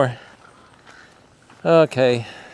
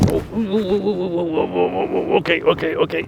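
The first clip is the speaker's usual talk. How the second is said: excited cooing; 7 semitones higher than usual. Real, not acted.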